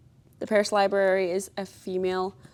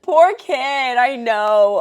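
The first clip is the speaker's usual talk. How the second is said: after laughing hard; 4 semitones higher, 7 dB louder, slower than usual. Real, not acted. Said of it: "I'm crying laughing".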